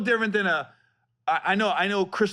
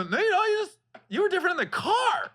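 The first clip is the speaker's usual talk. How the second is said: laughing. Real, not acted. Laughing while retelling.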